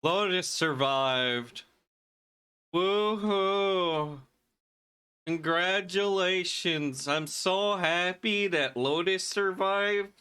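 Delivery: put-on slow, drawn-out Wisconsin accent. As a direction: cheer it slowly in a Wisconsin accent. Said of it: "I even broke out the Wisconsin accent".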